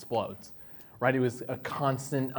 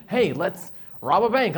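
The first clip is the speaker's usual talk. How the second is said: tempting friend; 7 semitones higher, 6 dB louder than usual. Retold or imitated. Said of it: "It's like".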